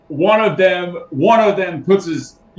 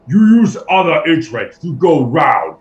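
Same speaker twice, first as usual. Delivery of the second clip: bugbear guard; 5 dB louder than usual. Acted. Bugbear guard broken speech.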